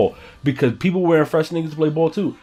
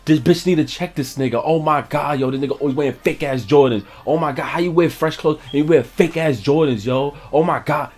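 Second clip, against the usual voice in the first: lightly raised pitch, mock-appalled girl; girl mocking him; 3 semitones higher than usual. Girl calling out his fake Jordans in front of everybody, mock-appalled. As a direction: imitate her scandalized public rant. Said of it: "I'm gonna say it the way she said it".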